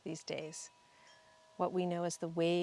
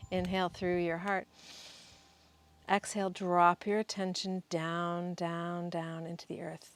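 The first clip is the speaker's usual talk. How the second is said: guided meditation. Real, not acted. Guide leading listeners to find the sacred place inside, guided meditation. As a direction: guide them inward, lingering on words and pausing for breath.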